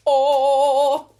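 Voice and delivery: loud, high gasp of "oh"; stunned exclamation; shocked oh. Real, not acted. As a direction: caught off guard by the reply. Shocked reaction to message.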